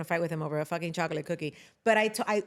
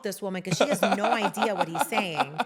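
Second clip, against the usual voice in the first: laughing; 3 dB louder than usual. Real, not acted. Laughing while telling.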